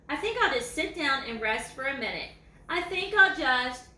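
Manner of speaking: lively read-aloud voice, savouring each line; story reading. A narrator's reading. Reading a dog's story to viewers, lively read-aloud.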